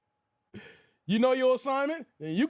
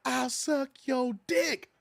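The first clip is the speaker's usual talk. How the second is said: slow mock yell on dick; hammed-up repeat for a deaf listener; drawn-out mock shout; repeated louder; much slower than usual. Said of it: "I said".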